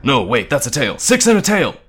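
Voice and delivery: loud correction rising to a high yell; hurried, panicky shouting; frantic shout. A narrator's reading. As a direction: call it out urgently. Frantic shouting during monster fight.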